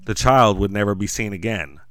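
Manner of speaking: dramatic horror story read; story narration. A narrator's reading. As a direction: narrate like a campfire horror tale. Narrates Mike Lindell's doom.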